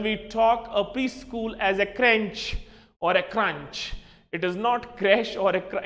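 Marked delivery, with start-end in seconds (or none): 1.9-2.6 CRUNCH said as "crench", n before ch; common mispronunciation. Shown as a demonstration. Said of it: "जो maximum लोग mispronounce करते हैं". 3.2-3.9 CRUNCH said as "cranch"; common mispronunciation. Shown as a demonstration. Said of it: "it is almost murdering of pronunciation".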